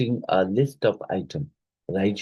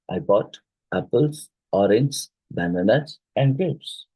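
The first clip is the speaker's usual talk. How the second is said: teacher's list, lifting each item until "grapes"; list intonation; 2 semitones higher than usual. Shown as a demonstration. Teacher showing how a list rises until the last item, list intonation. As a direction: rise on "apples", "orange", "bananas", then finish on "grapes". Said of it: "it rises with each item until the last".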